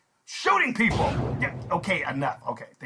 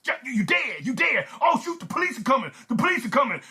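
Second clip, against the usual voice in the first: lightly acted panicky robber, raised pitch; a touch of mock panic; robber in alarm; 5 semitones higher, faster than usual. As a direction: warn that trouble is coming. Robber sees police coming.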